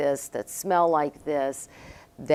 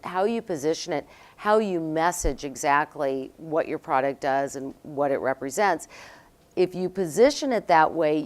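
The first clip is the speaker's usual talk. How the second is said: imitated Costa Rican accent. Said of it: "he says in his accent".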